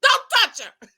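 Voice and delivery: high yelled don't touch her; screaming warning. Retold or imitated. Vlogger screaming at the TV during her live, high and loud. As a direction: yell at the TV, half laughing. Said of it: "I was screaming".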